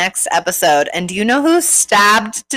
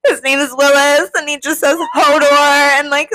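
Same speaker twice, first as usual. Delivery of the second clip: amazed realization; 7 semitones higher than usual. Retold or imitated. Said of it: "I'm like".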